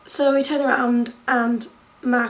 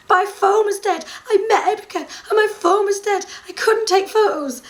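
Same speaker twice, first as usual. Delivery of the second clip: laughing; 6 semitones higher than usual. Real, not acted. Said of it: "So it's very sad".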